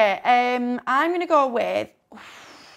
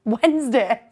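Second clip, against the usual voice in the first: louder repeat for a listener who missed it; repeated clearly; 4 dB louder, slower than usual. Real, not acted. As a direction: say it again, firmer and louder. Repeats it after listener says pardon.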